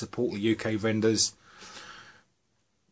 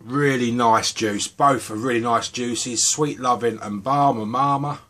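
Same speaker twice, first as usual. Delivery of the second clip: put-on American accent; 5 dB louder than usual. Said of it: "that's the end of my American accents".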